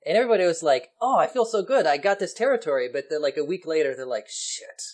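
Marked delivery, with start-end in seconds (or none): 1.0-2.9 mock gloating. Nations voiced gloating after Congress. 4.3-4.8 mock whispered curse. Nations realizing swindle.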